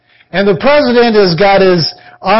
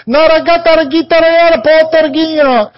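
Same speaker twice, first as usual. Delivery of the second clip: brushed-off taxi driver; 8 semitones higher than usual. Retold or imitated. Taxi drivers refusing him.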